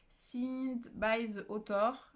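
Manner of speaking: slow English read with a heavy French accent; a French booktuber reading an English cover, strong French accent. Real, not acted. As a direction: sound out the English words in a thick French accent. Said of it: "mon accent est dégueulasse".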